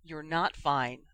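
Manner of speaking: slow, gentle and tender. Acted. Ginny gently confronting Harry, slow and tender. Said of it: "but she tried to be gentle instead".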